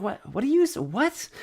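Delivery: high, baffled mock question; mock confused what. Learner baffled by native speed, mock confusion. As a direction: play baffled at the fast Spanish. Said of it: "And I'm like".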